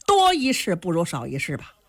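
sneering aside, fast at the end; cold sneer. Acted. The two brothers sneer at Qin Qiong for saving the man. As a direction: scoff at your brother's meddling. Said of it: "两个人冷笑一声".

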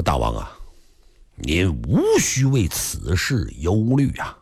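lightly voiced calm minister, low and slow; a hint of an unhurried official soothing his lord; calm minister Mang Mao. Mang Mao steps forward to calm the king, low and slow. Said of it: "芒卯出来了，说".

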